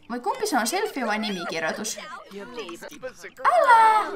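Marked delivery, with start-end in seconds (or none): 3.4-4.1 high, loud cry of protest; sharp, raised "don't" at the game; protesting yelp. Real, not acted. Player tells the game character to stop, protesting yelp.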